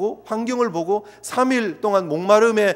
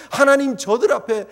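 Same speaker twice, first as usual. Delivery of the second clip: mock grievance, rising louder at the start; a hint of a frustrated leader's complaint; complaining; 2 semitones higher, 3 dB louder than usual. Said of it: "라고 원망하지 않고요". (하나님께 원망하는 모세, 억울한 항의조)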